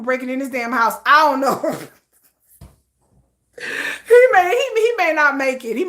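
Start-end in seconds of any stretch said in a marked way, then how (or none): 3.6-5.9 hammed-up sob, starting high; fake-weep over his fate; mock tearful lament; mock crying.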